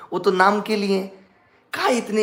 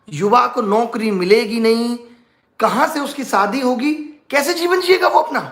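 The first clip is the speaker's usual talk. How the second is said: mock pleading, pitched higher; indignant mock plea; 5 semitones higher than usual. Aspirant pleads to Modi for jobless youth, mock indignant. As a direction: build the mock protest, voice climbing.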